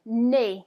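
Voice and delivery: "nez" as "nay", Z silent; French pronunciation. Shown as a demonstration. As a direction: model "nez" to rhyme with English play. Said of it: "Go ahead and say that".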